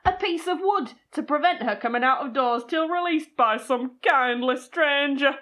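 lightly put-on Yorkshire accent reading; Yorkshire-accented storyteller, measured. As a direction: read it out in a Yorkshire voice. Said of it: "That's my Yorkshire accent".

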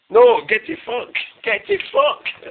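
drawn-out, slow indignant no; telling his mate to get lost in slow mock outrage. Real, not acted. To his drunk mate at bedtime, drawn-out mock outrage.

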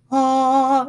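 "Ah" big, full and supported on the air. Shown as a demonstration. Band teacher shows the full, supported "Ah" sound. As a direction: open up and let "Ah" ring full. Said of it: "so that we sound like".

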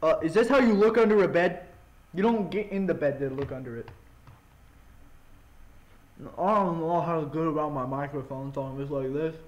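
talking while chewing food; mouth full. Real, not acted. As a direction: speak through a mouthful. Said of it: "Sorry if I'm talking with my mouth full".

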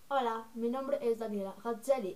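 lightly put-on introduction; Daniela. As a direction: softly try out a character voice. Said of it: "usar la voz de Daniela así".

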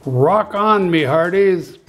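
a mock bellow to the crew; bellowing pirate. Pirate captain cheering his crew on, mild mock bellow. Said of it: "bellowed Braidbeard".

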